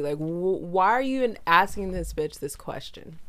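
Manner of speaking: loud, exasperated rant at Tucker; heated shouting. Real, not acted. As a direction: raise your voice, worked up and incredulous. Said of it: "Sorry, I'm shouting".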